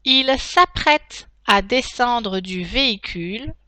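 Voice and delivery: slow dictation, each chunk spaced; dictating. Shown as a demonstration. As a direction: dictate slowly with punctuation spoken. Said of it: "passer à la dictée en elle-même".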